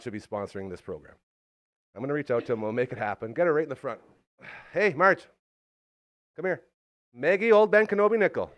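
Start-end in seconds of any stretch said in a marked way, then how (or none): none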